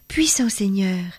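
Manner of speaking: "puissant seigneur" dit en implorant, voix de jeune fille; suppliant, posé, insistant; voix suppliante. Acted. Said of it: "qui les appelait d'un ton suppliant". (la tzigane implore le seigneur, voix suppliante)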